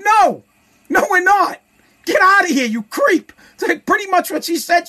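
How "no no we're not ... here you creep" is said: high, sharp mock female voice rejecting him; mock woman's rejection. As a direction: play the woman brushing off a creep, pitched up.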